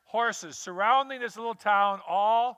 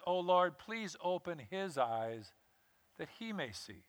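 quiet prayer; 8 dB quieter than usual. Acted. Elisha prays for his servant to see: soft fading prayer. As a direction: pray it gently, fading.

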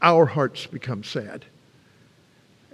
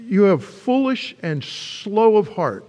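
slow, weighty "You have foolish and slow of heart"; slow rebuke; 4 semitones higher, 3 dB louder, slower than usual. Acted. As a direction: lean on "foolish", drawn out. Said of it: "he says".

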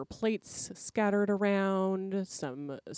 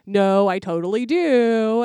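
high, loud cheeky insistence; a young man's brash comeback; loud protest; 6 semitones higher, 12 dB louder than usual. Retold or imitated. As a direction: shout it back indignantly. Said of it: "And old Marty's like".

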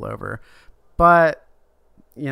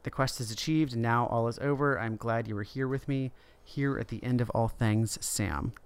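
quiet farewell; 5 dB quieter than usual. Retold or imitated. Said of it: "he says one last thing".

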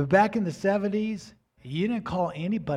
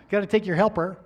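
laughing; 4 semitones higher, 6 dB louder, faster than usual. Real, not acted. Laughs at the punchline.

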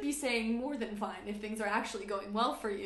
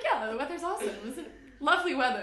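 laughing; 3 semitones higher, 5 dB louder, faster than usual. Pretend. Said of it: "Be like".

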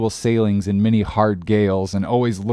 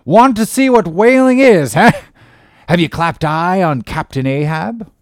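put-on loud, higher, barking old Quaker captain; an old salt sizing up a greenhorn, loud and gruff; gruff old sea captain; 8 semitones higher, 7 dB louder than usual. Old captain interrogating a would-be sailor, loud and gruff.

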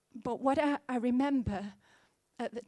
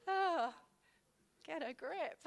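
higher, much softer, choked up; tearful self-scolding; 6 semitones higher, 5 dB quieter, slower than usual. Real, not acted. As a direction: pull yourself together through tears. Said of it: "I'm sorry for getting emotional".

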